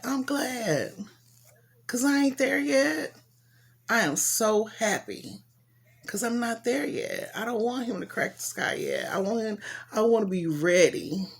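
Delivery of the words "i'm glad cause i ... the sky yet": joyful exclamation. Real, not acted. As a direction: voice leaps high with glad relief. Joyful outburst about not ready yet.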